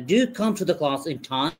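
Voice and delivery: slow, careful drill questions and answers for students to repeat; slow model reading. Shown as a demonstration. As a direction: read each line slowly and clearly, like a model for the class. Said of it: "এখন আমি যেভাবে উচ্চারণ করবো".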